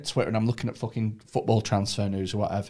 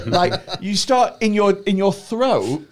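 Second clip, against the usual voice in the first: excited; 6 semitones higher, 5 dB louder than usual. Real, not acted. Describes imagined throat symptoms.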